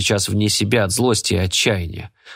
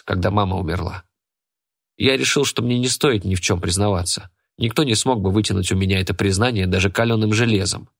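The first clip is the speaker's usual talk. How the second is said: plain reading voice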